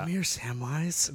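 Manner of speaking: slow creepy hobbit-killer voice; lightly voiced creepy Frodo; slasher killer. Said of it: "Elijah Wood killer voice".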